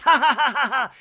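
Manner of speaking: loud, high mock cackle; exaggerated socialite "ha ha ha"; Real Housewives laugh. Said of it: "share a Real Housewives of Beverly Hills laugh".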